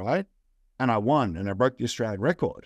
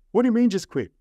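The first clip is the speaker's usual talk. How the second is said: higher and louder, incredulous; incredulous reply; 8 semitones higher, 4 dB louder than usual. Retold or imitated. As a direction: push back in disbelief. Shocked reply to wife.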